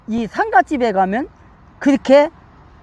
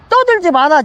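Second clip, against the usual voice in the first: higher-pitched quoted rebuke; stern command; 5 semitones higher, 4 dB louder than usual. Acted. Preacher paraphrasing Jesus to noisy mourners, stern command. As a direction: order the noisy crowd to stop. Voices Jesus silencing the crowd.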